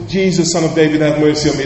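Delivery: first cry to Jesus, only lightly projected; retold shout. Blind Bartimaeus calling to Jesus for mercy, a restrained retold shout. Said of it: "and he shouted".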